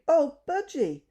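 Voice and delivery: high, loud panicked cry; a girl crying out as her budgie escapes; screaming in dismay. A narrator's reading. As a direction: wail that the bird has flown. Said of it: "Bessie screamed".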